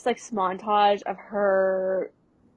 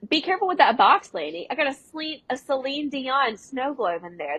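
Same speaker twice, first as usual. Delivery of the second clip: put-on lightly raised, hurried kid voice; Matt's bossy voice; 4 semitones higher than usual. Matt warning Lanny, lightly raised bossy kid voice. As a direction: snap at him to be careful. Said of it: "He says".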